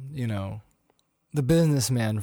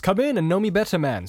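lightly voiced ghost, raised pitch; exclaiming ghost; 6 semitones higher than usual. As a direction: call out a little as the spirit. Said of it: "exclaimed the ghost".

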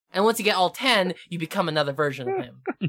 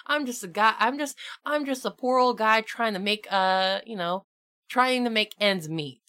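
modest Southern merchant pleading his case; hint of folksy Southern twang; Southern accent; 3 semitones higher than usual. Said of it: "he always talks in a southern accent".

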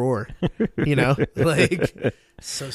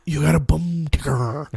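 mock Michael Madsen; 2 semitones higher than usual. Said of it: "worst acting I have ever seen".

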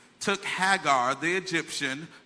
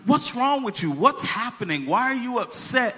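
higher-pitched, urgent brotherly questions; concerned questioning; 5 semitones higher than usual. Retold or imitated. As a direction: press a crying sister for answers. Concerned brother questioning crying sister.

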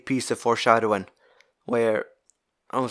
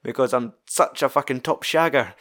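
boastful Baxter; 2 semitones higher than usual. Retold or imitated. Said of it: "he's like".

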